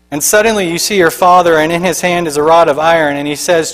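dramatic sermon storytelling; vivid story narration. Acted. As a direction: draw the congregation into the vision. Narration continues.

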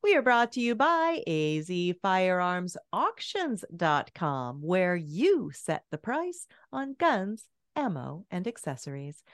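upbeat announcer read of the show opening; radio show intro. Acted. Host welcoming listeners to the show, upbeat announcer voice.

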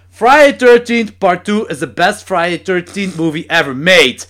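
loud, slow, cocky proclamation; arrogant. Retold or imitated. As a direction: imitate a boastful guest proclaiming it as fact. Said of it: "begon op zo'n arrogante manier te zeggen". (arrogante, luide aankondiging)

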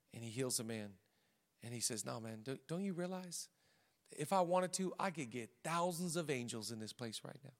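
low, very soft storytelling; hushed retelling. Retold or imitated. Preacher retelling Jesus healing the ear, hushed and low. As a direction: drop right down, quiet and understated.

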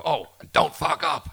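high, slow mocking sing-song; teasing jinx. Producer unnerving a musician before a take, high mocking sing-song. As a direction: drawl it out to unnerve the player. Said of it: "and you go".

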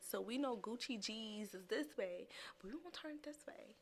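conspiratorial whisper. Acted. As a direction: whisper it like a secret plan. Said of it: "whispered plan to turn it".

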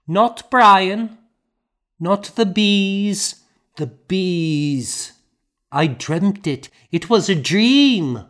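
put-on high, loud, pleading little girl; a child clinging to it being a dream; distraught child. A narrator's reading. Grieving child denies death.

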